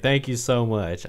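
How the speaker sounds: slow, drawn-out mock politeness; lightly sarcastic, stretched out; sarcastic thanks. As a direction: imitate a sarcastic thank-you. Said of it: "when he was sarcastic towards".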